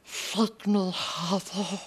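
a lightly voiced hissing cave creature, mostly in own voice; mock creature voice, barely changed from own; creepy creature voice. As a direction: play a wheedling cave creature, half-hearted. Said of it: "the accent challenge".

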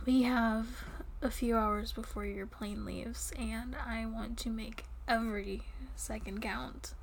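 soft seductive whisper. Acted. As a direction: lean in and whisper.

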